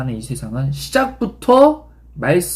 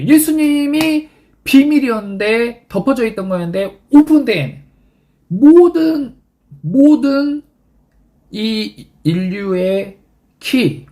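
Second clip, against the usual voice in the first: fervent climax; 6 semitones higher, 4 dB louder, slower than usual. Real, not acted. Preaching climax, rising fervor.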